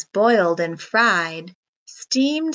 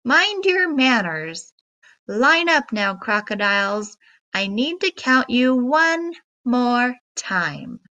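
scolding; 2 semitones higher than usual. Acted. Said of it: "the monkey scolded".

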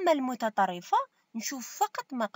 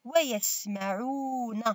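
slow dictation; slower than usual. Shown as a demonstration. Teacher repeats a sentence for pupils, slow dictation. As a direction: read out slowly in formal Arabic, phrase by phrase.

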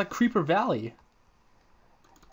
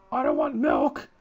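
much lower, louder grumble; deep mock voice; 7 dB louder than usual. Player mocks the cow, deep goofy growl.

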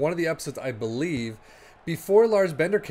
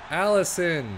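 louder, exasperated cry of the name; 4 semitones higher, 4 dB louder, slower than usual. Real, not acted. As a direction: call out the keeper in real frustration. Goalkeeper mistake, exasperated groan.

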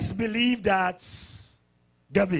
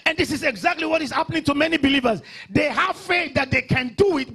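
raised, urgent pulpit pitch; forceful preaching; 6 semitones higher, 5 dB louder than usual. Real, not acted. Pastor diagnosing many believers' weakness, forceful preaching. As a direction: drive the point home to the congregation.

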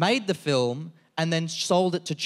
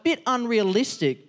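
mock freak-out; 5 semitones higher than usual. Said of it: "I started freaking out".

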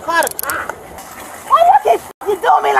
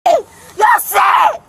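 angry shouting. Real, not acted. Yelling while being carried.

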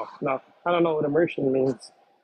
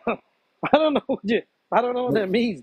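laughing; 6 semitones higher than usual. Real, not acted. Baffled by the question.

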